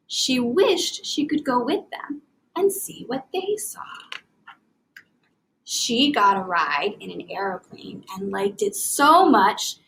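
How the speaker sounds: put-on lively storybook reading to children; expressive read-aloud. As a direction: read it with enthusiasm for young readers. Teacher reads picture book aloud.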